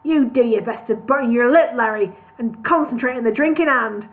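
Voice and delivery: bully them into drinking; boss rant. Acted. Brewery boss hectoring his sober workers, loud.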